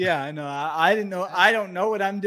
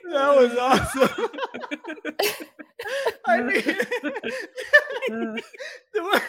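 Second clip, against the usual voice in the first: laughing; 10 semitones higher than usual. Real, not acted. Laughing after the bid.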